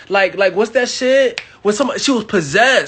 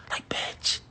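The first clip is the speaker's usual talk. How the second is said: whispered aside; 12 dB quieter than usual. Retold or imitated. Aside mocking her astrology.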